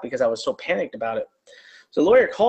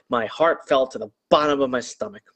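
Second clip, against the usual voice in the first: normal talking voice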